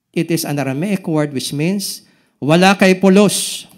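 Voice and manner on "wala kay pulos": mock insult. Acting out the insult.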